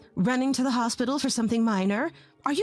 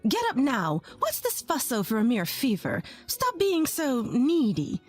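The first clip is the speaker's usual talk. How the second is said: harsh berating; 3 semitones higher than usual. Acted. Mother-in-law berating sick wife.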